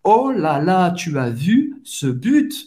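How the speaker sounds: swooping "Oh là là", stretched rising question; excited. Shown as a demonstration. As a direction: savour the amazing goal. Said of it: "mais você tá empolgado". (empolgado, com pergunta ascendente)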